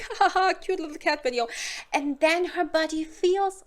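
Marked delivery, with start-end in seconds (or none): 0.0-1.5 mock laugh. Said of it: "she's like".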